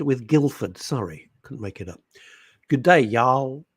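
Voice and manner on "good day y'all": mock Texan accent. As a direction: put on a Southern American twang. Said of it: "She doesn't talk like that at all".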